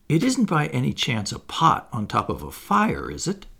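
timid, hesitant question. Acted. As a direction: ask shyly, half afraid to hope.

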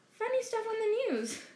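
mumbled. Acted. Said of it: "Mister Dursley mumbled".

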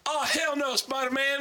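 mock yell at screen. Couple behind in theater.

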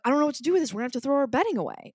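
high and fast, frantic; rushed, high, overwhelmed complaint. Retold or imitated. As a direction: blurt it out in a panic. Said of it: "I'm like".

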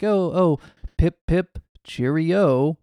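lightly put-on jolly British toff; mock British gent. Co-host spoofing a foreign speaker, mock British cheer. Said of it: "he's just like".

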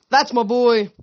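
high, loud triumphant yell; cheering his dragon as it arrives; proud yell. Acted. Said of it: "Leo yelled".

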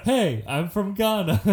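lightly attempted Ghanaian accent; half-hearted mock Ghanaian accent. Shown as a demonstration. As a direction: have a joking go at a Ghanaian accent. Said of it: "Wanna hear my Ghana accent?".

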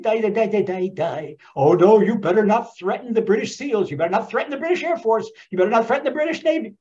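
fast, hammed-up blustering threat; mock British commander. Commander to Fiddler on the Roof, fast mock bluster. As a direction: bluster like a pompous general. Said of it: "He said".

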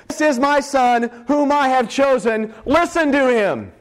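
slow, measured proclamation; solemn scripture reading. Acted. A voice from the cloud, read out solemnly. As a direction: proclaim it slowly from the text.

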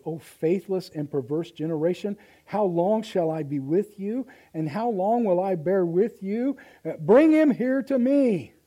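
loud, slow, rising rebuke; ticked-off Jesus. Acted. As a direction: scold the crowd like an angry teacher. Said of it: "is ticked".

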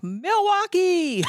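long, high stretched arena yell; drawn-out mock rock-star scream; rock star stage shout. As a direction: bellow it to the crowd like a rocker on stage. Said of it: "he's like".

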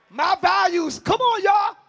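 loud mocking preacher shout. Preacher shouting the jungle values at the women. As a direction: belt out the list like a mocking hype man.

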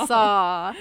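"Saw" drawn out as the right ending; loud, corrective "Saw", no final s; correcting pronunciation. Shown as a demonstration. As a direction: stress "Saw" loudly as a correction. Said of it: "we were like".

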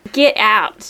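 put-on short Australian-accented phrase. Showing friends an Australian accent, Australian vowels. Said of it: "an Australian accent".

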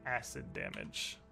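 ordinary delivery

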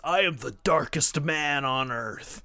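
a hint of a self-serious goth; mock brooding villain. Mocking Vampiro again.

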